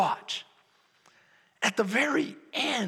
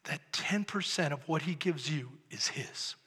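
a low, pointed whisper; 6 semitones lower, 8 dB quieter than usual. Acted. Pastor tells the church about the tithe in a whisper. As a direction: drop to a whisper for weight. Emphasis drop.

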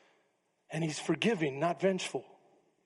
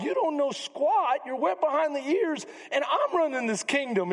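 scornful; 7 semitones higher than usual. Retold or imitated. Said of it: "he thought".

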